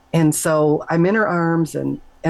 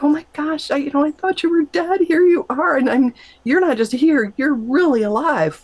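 much higher, breathless astonished delight; astonished joy; 10 semitones higher than usual. Retold or imitated. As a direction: gasp it out in disbelieving joy. Shocked to meet dead grandma.

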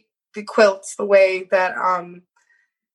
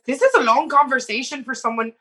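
lightly done bad Scottish accent; a half-hearted Scottish accent, barely there; terrible Scottish accent. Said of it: "it's a terrible Scottish accent".

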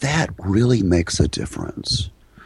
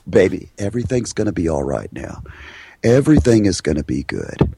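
soothing pet voice; 5 semitones lower than usual. Shown as a demonstration. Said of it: "the voice that you would use with your pet dog".

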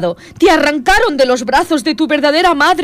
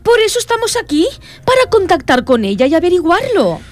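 seance medium; 6 semitones higher than usual. Acted.

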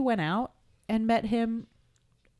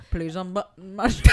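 laughing seductive. Retold or imitated. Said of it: "I'm shimmying a little bit".

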